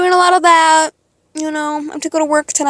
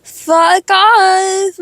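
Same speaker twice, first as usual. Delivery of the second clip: high, loud fuck off; angry fuck off; 5 semitones higher, 4 dB louder than usual. Real, not acted. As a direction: spit it out in fury. Venting anger at stepmom.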